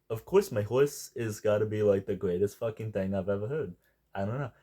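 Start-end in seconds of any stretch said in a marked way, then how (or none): 0.1-1.1 energetic imitation. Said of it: "he said it with such, like, uh, energy".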